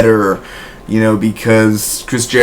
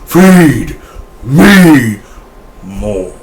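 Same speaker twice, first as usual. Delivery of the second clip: mock creepy catchphrase; 3 semitones higher, 4 dB louder, much slower than usual. Quoting Wyatt family catchphrase.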